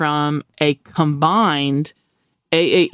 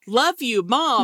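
higher, sweet dog voice; 7 semitones higher, slower than usual. Retold or imitated. The dog telling its owner, sweetly devoted. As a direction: coo it like a devoted pup. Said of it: "the dog is like".

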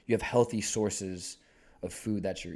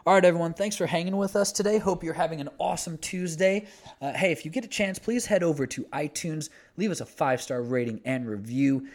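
upbeat outro, lifted at the start; punchy host outro read; podcast sign-off; 3 semitones higher, 4 dB louder than usual. Real, not acted. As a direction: thank listeners and plug the show with energy.

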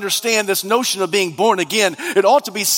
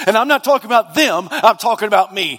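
emphatic pulpit delivery, pitched up as it builds; building sermon fervour; fervent preaching; 5 semitones higher than usual. Real, not acted. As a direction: preach it with urgent conviction. Preaches with force.

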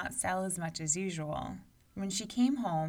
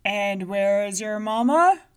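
giant asking; 2 semitones higher, 12 dB louder than usual. A narrator's reading. Giant questions Tutu Moo.

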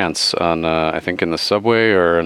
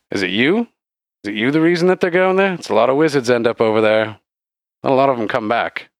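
lightly voiced questioning barkeep; wary bartender; 3 semitones higher than usual. Bartender asks who sends wizards east, lightly voiced character. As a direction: lightly play a barkeep warning travellers.

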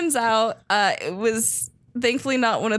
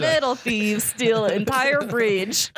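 slow, poor attempt at Russian accent; halting, unconvincing Russian accent; bad Russian accent; slower than usual. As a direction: try a Russian accent and miss. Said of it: "That's not even close".

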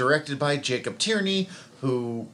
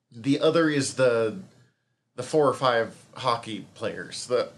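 mouth full. Real, not acted. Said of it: "talking while eating has given me the hiccups".

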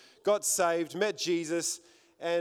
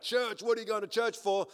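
higher-pitched, taken-aback retort; puzzled disbelief, pitched up; incredulous; 5 semitones higher than usual. Retold or imitated. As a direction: imitate a guy baffled by the idea. Guy acted out, taken aback.

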